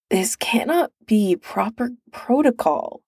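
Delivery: croaky, just-woken voice. Acted. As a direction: croak it out half awake. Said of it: "Bernard croaked".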